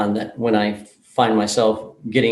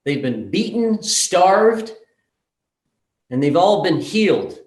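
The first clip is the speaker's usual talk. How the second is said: solemn earnest speech; 3 semitones higher, slower than usual. Retold or imitated. Therapist's solemn speech to everyone.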